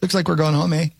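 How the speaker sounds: lightly put-on Canadian accent with a rising eh; a hint of a Canadian accent, teasing the store's failure; mock Canadian accent. Joking about Target failing in Canada, in a mild mock Canadian accent. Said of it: "It's a terrible accent".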